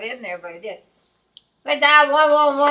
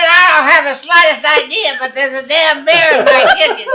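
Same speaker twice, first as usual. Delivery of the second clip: louder, laughing exasperation; retold outburst with laughter breaking in; exasperated retort; 2 semitones higher, 6 dB louder than usual. Caller fed up with dispatcher's spelling question, exasperated.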